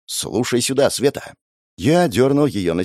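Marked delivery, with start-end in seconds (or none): none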